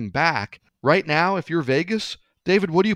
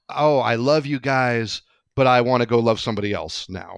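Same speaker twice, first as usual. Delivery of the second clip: insincere farewell. Retold or imitated. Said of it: "that vibe of".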